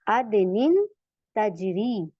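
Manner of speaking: अदनिन तजरी read word by word, rising then falling; demonstrated recitation. Shown as a demonstration. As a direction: model अदनिन then तजरी as separate steps. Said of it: "ये देखें". (अदनिन तजरी अलग-अलग पढ़कर दिखाना)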